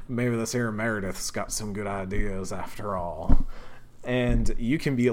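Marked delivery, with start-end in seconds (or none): 0.1-3.4 put-on southern accent. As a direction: lay on a southern accent for the templar. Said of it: "giving him a southern accent".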